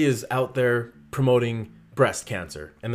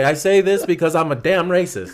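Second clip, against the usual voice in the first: loud, higher-pitched joking proclamation; mock proud declaration; 5 semitones higher, 5 dB louder than usual. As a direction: announce it to the world, half laughing. Mock public confession, both laughing.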